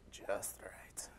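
soft whispered "just right". Pretend. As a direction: hush it like a storybook ending. Goldilocks punchline, Three Bears.

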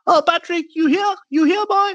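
put-on high, quavering old man calling out; old man's voice. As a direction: call out like a confused old man. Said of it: "I hear a voice from inside saying".

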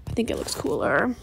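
whispered aside, repeating herself. Shown as a demonstration. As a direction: breathe it like a secret. Whispered repeat of own opinion.

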